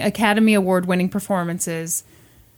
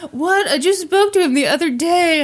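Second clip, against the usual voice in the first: mock shock; 6 semitones higher than usual. The speaker acting shocked.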